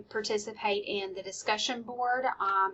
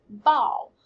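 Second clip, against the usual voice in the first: teacher prompt. Shown as a demonstration. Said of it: "So the teacher might say".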